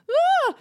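sharp high loud scream; mock scream. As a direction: shriek in sudden panic. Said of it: "And screamed".

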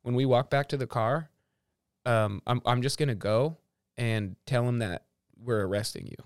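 lightly voiced cop, low and soft; understated imitation of a cop, dropped in pitch and level; confiding cop. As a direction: quietly let them in on a prank. Cop confiding his prank plan.

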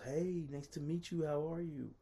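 imitating a friendly woman in a high voice; high-voiced imitation of a welcoming hostess; warm, friendly greeting. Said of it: "she was so warm and friendly".

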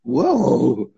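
sarcastic, fake-amazed whoa; mock shock. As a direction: play at being scandalised, dry. Mock shock at obvious porn.

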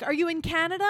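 high, worried grandma voice. Retold or imitated. Grandma on the phone, frantic about her grandchild. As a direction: mimic a fretful grandmother.

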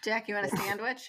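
mom offering a sandwich, Michigan accent; Jack, you want a sandwich, in a Michigan mom accent. Shown as a demonstration. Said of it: "when you offer our child a sandwich".

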